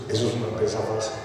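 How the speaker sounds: very soft, low, quick verdict; Jesus's quiet correction. Retold or imitated. Jesus corrects the preacher's wish about marriage, quiet and low. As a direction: drop to a hushed, low correction.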